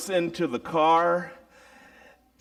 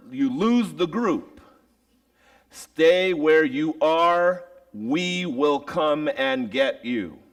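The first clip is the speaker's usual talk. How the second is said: firm teacher; 2 semitones higher, 4 dB louder, slower than usual. Retold or imitated. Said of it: "very explicit instructions".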